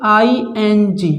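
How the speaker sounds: letter by letter, unhurried; slow spelling out. Shown as a demonstration. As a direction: spell I N G slowly. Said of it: "किंग".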